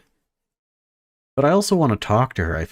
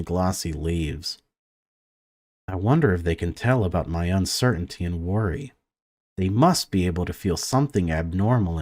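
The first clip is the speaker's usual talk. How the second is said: even, measured read-aloud of game text; story narration; 2 semitones lower than usual. A narrator's reading. Gamer reads a conservatory scene to viewers, story narration. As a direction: narrate it evenly, pausing between sentences.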